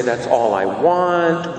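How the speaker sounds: slow, hesitant "That's all I want", as if testing the words; tentative, trying it on. Shown as a demonstration. Believer testing the psalm's words, slow and hesitant. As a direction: try the words on for size, unsure of them. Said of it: "say it as though we're trying it on for size".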